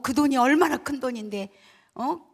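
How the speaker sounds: indignant reproach, lightly imitated; angry sister. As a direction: scold as an exasperated older sister, mildly acted. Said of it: "막 언니가 화가 났어요".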